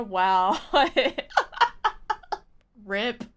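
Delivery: ordinary talk, nothing marked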